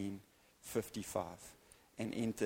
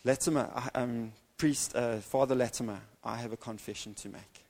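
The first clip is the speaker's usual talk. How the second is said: nervous call across the aisle, a bit louder; young man calls out to the big priest, halting and a bit louder; 3 dB louder than usual. Retold or imitated. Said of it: "And he cries out".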